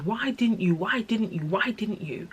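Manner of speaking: pleading anger losing force; retold anger. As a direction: re-enact hurt, insistent questioning. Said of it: "I was so angry at her".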